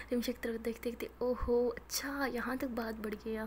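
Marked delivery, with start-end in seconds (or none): 1.2-3.5 sly teasing. Acted. Teasing friend whispers slyly.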